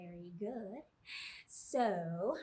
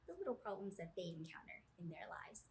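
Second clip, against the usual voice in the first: whisper; 7 dB quieter than usual. Acted. Whispering part of intro.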